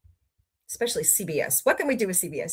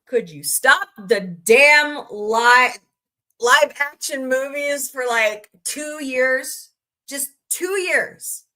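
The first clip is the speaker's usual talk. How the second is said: exasperated plea; 3 semitones higher, 4 dB louder, slower than usual. Real, not acted.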